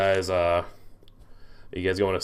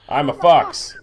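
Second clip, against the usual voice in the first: slow, higher, louder fox voice; raised, stretched-out character test; 6 semitones higher, 8 dB louder, slower than usual. Shown as a demonstration. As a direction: draw it out while testing a fox voice. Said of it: "doing a test on my voice".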